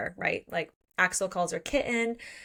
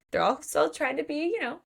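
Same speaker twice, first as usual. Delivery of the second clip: higher, quick and mildly anxious questions; concerned check-in; 5 semitones higher, faster than usual. Retold or imitated. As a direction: check on them in a quick, lifted voice. Men retold checking on her.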